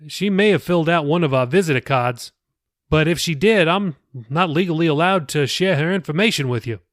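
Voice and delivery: easygoing pastor chatting; pastor Billy, friendly. Acted. The pastor recalls a girl from church, lightly voiced.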